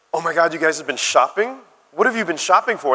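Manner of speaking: gushing American barista, pitch climbing; hammed-up American girl amazement; mock American accent. Barista gushing over customers' shopping trip, mock American accent. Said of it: "this is my best American accent".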